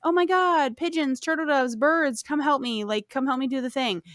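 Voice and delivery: mock desperate plea; pleading Cinderella. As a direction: beg the birds for help. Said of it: "is like".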